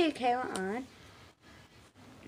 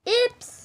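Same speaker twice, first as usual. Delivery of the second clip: pretend baby crying. Shown as a demonstration. Demonstrating doll's crying voice.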